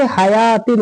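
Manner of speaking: हयातिन with long "yaa", no "w" sound; correct silent-waw reading. Shown as a demonstration. Teacher repeating the right reading, waw dropped. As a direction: glide from "yaa" to "tin" in हयातिन. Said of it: "तो क्या पढ़ेंगे?".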